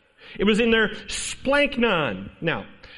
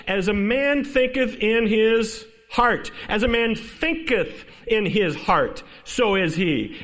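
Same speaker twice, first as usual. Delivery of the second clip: slow, weighted recital of a proverb; scripture recitation; 4 semitones higher, slower than usual. Acted. Preacher quoting Proverbs to the congregation, slow and emphatic. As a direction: let each phrase land deliberately.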